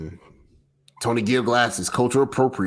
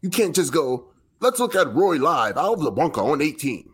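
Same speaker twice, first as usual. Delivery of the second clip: put-on British accent. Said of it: "deliver this in a British accent for us".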